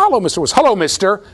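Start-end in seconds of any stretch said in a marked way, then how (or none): 0.0-0.4 high-pitched quick hello; light, high mimicry of a talking bird; generic bird voice. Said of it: "But it wasn't". 0.5-1.2 lightly imitated shopkeeper greeting; high, full hello to a customer; store manager's voice. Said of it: "in the voice of the".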